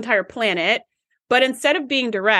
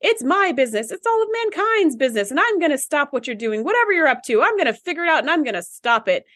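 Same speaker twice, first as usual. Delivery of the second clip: higher, huffy busybody scolding; indignant Karen; 5 semitones higher than usual. Retold or imitated. Cohost imitating Clemens scolding Data, higher indignant Karen voice. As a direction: play the meddling Karen who won't let it go. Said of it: "you sound like such a Karen".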